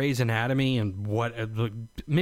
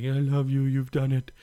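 tender to wife. Retold or imitated. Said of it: "the typical YouTube stuff".

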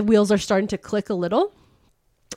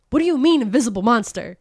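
retold incredulity; 2 semitones higher, faster than usual. Companions question her about an unseen monster, mock incredulous. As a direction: imitate someone questioning a crazy claim. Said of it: "look at her crazy".

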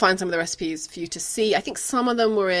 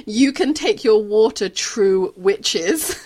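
put-on Irish accent; 3 dB louder, slower than usual. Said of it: "I'm gonna say it in my accent".

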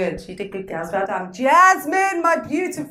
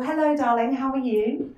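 polite greeting. Shown as a demonstration. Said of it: "P's and Q's, please, people".

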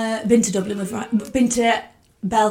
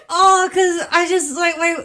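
put-on higher, laughing, drunk gushing; giddy rambling; 5 semitones higher than usual. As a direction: gush about your friend. Retelling her drunk rambling.

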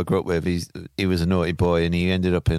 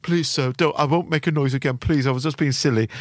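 higher, pleading like a scolded schoolboy; hammed-up begging; 7 semitones higher than usual. To the campsite warden, higher mock pleading to stay. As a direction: beg him pathetically, mock groveling. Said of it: "I was like".

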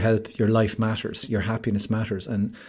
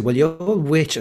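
retold playful outrage, voice pitched up; mock indignation; 6 semitones higher than usual. Husband jokingly scolds wife for saying great, mock indignation. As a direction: protest in teasing, high-pitched indignation.

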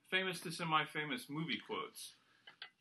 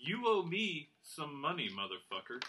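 monotone quote reading. Shown as a demonstration. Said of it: "read these all in the same monotone voice".

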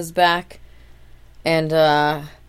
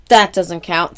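angry; 7 dB louder, slower than usual. Retold or imitated. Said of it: "Kevin's mad".

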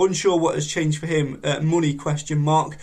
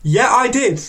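silly high voice; 9 semitones higher, 4 dB louder, slower than usual. Acted. Reading Ellie's reply in her voice.

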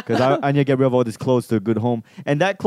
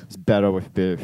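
low put-on Australian; Australian imitation, pitched down; attempted Australian accent; 7 semitones lower than usual. Shown as a demonstration. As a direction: try a deep Aussie accent. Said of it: "I don't know how to talk like you guys".

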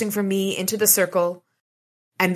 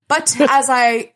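laughing; 8 semitones higher, 7 dB louder, slower than usual. Real, not acted. Laughs mid-read.

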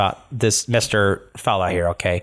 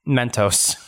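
slow, proud drawl of a doting owner; proud pet owner talking slowly; proud gnome owner; 3 semitones higher, much slower than usual. Acted. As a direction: savour each word like a proud dad. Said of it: "He's like".

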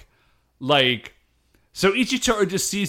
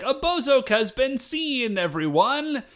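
disguised Dapu voice; 2 semitones higher than usual. Acted. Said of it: "be like".

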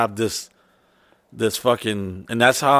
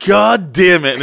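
Miguel; 7 semitones higher, 6 dB louder, slower than usual. Retold or imitated. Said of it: "And Miguel's like".

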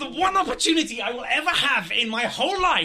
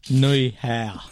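low, mock attempt at a Chinese accent; 8 semitones lower, 4 dB louder than usual. Comic goaded by co-host to try it, mock Chinese accent. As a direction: put on a token Chinese accent, pitched down. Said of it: "just try a Chinese accent now".

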